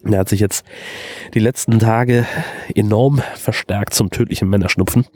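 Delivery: stuffy nose from a heavy cold; man flu. Real, not acted. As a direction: talk through a blocked, sniffly nose. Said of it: "klinge ich wahrscheinlich ein bisschen unappetitlich".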